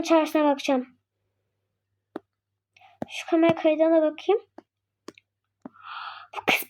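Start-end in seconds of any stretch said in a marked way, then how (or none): 0.0-4.4 whisper. Acted. Sneaky check of camera footage.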